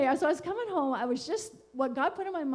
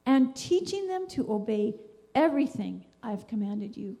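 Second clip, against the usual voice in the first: scripture reading; 3 dB louder than usual. Acted. Reading Matthew to her listeners, earnest and measured. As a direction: read each verse with weight and care.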